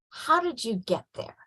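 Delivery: soft, inviting question; softly voiced parental wonder; gently curious parent.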